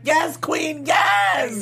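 high-pitched shouted hype; retold cheering. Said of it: "And I was like".

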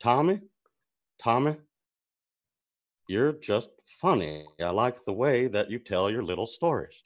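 lightly voiced Hank Hill gangster; Hank Hill as Henry Hill. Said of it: "Hank Hill as Henry Hill".

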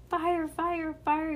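high but mild mock yell; yelled alarm. A narrator's reading. Ruby spots smoking grass, high mild alarm cry. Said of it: "yelled Ruby".

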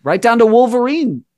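high and loud, fired up; excited. Real, not acted. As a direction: burst out with it, thrilled. Excited callback to the movie.

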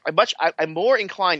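imitating a noncommittal hedger; hedging mock well. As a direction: stretch it out like a waffling politician. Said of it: "the guy who's like".

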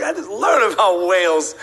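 lightly acted childlike excitement; excited little girl. Girl telling friends about whales, lightly acted excitement. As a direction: share the news with a touch of glee. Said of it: "And she's excited".

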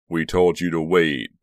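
loud, slow, stern rebuke; angry reprimand at an even pitch. A narrator's reading. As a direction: scold with each word weighed out. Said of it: "Bender said angrily".

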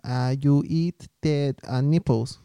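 slow, put-on Asian accent. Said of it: "Once you do an Asian accent".

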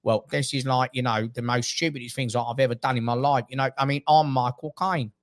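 a light celebrity impression, stretching the sign-off; Michael Caine. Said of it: "then you got Michael Caine".

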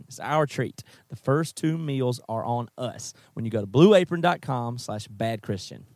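host closing a sponsor read. Acted. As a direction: pitch the offer with energy. Sponsor call to action.

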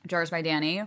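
chewing while talking; talking through a mouthful; mouth full. Real, not acted. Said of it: "I'm chewing right now".

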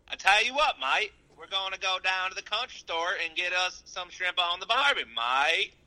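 Australian redneck. Pretend. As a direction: mash up a bad Australian and Southern accent. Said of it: "Can you do an Australian redneck?".

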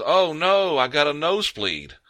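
imitating her high-pitched fake distress call; put-on high wail of alarm; mock alarm. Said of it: "And she goes".

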